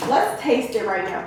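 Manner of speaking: breathless after talking a lot; out of breath. Real, not acted. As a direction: speak while catching your breath. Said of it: "'cause I'm out of breath".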